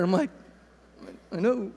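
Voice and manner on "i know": softer, confiding reply; hushed aside. Retold or imitated. Dad lets his son know he knows, hushed. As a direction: answer under your breath.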